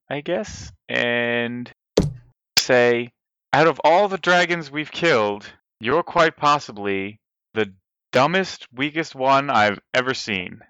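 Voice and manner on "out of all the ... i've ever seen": deliberate insult, slowing before the punch; measured put-down, pausing before "dumbest"; vicious mockery. Bard insulting a dragon to its face, mocking. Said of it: "I will vicious mockery again".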